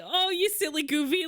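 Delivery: high-pitched playful mock scolding; imitating a bashful tease; playful teasing. Imitates his bashful, teasing reaction.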